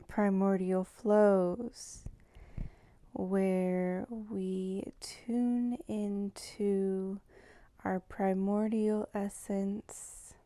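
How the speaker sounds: slow, measured meditative intro with long pauses; guided meditation. Real, not acted. Welcoming listeners to tune into primordial flows, slow meditative delivery. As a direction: draw each phrase out slowly, leaving space between. Opens a guided tuning-in practice.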